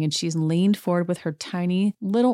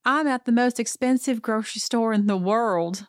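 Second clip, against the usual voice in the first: imitating Sutton; 5 semitones higher than usual. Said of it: "She said".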